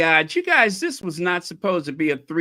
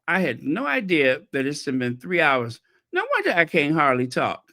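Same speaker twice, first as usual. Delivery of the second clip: hoarse voice. Real, not acted. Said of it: "I'm sitting up here losing my voice".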